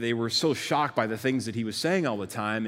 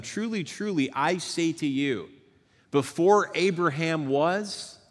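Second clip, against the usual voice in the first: higher, slow and weighty declaration; solemn proclamation; 7 semitones higher, 4 dB louder than usual. Retold or imitated. Preacher voicing Jesus before the crowd, slow solemn build. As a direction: build slowly toward the reveal.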